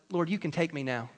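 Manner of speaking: low, faint seasick plea; mock despair. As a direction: sigh it out like you're about to die. Retold seasick prayer.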